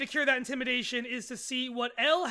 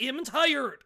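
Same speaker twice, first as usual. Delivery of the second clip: news reporter voice. Acted. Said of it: "I'm gonna turn the news reporter voice on".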